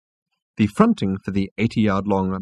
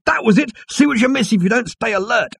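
excited high-pitched cry; Zaphod; 12 semitones higher, 4 dB louder than usual. A narrator's reading. Zaphod remembering what they missed, high excited cry. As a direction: exclaim it far above the narration. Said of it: "cried Zaphod".

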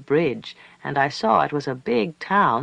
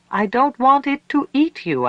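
put-on high, loud child's pleading; frightened cry; 9 semitones higher, 6 dB louder than usual. A narrator's reading. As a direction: cry out in terror for someone. Child cries out in terror, repeatedly.

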